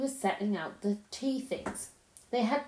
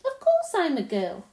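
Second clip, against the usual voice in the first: emphatic insistence; 5 semitones higher, 7 dB louder than usual. Acted. Lucy insists indignantly.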